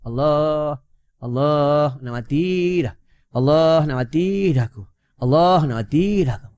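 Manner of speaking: low, weary groaning Allah; a hint of a sick man moaning in a hospital bed; dying patient. Preacher imitating a hospital patient calling on God, mildly moaning. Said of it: "dia sebut Allah".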